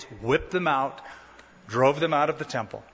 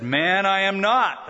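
slow, higher-pitched denial; emphatic denial; 4 semitones higher, 3 dB louder, slower than usual. Acted. Peter answers the one who accused him, emphatic denial. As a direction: deny it slowly and firmly.

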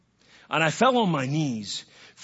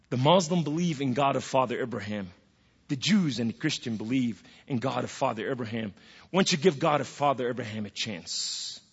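lower, softer, gentle counsel; comforting voice of God; 6 semitones lower, 5 dB quieter than usual. Retold or imitated. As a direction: offer it quietly as reassurance. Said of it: "It was more comforting than my mother voice".

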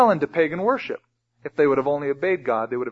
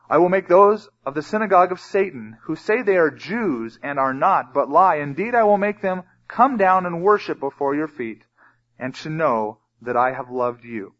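raised, emphatic Bible reading; scripture reading; 2 semitones higher than usual. Acted. Preacher reads God's promise to the church, emphatic scripture reading. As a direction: declaim the verse, leaning on key words.

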